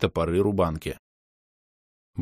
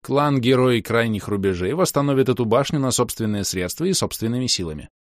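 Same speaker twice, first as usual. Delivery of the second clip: loud and clear; 3 semitones higher than usual. Acted. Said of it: "заявил громко и отчётливо".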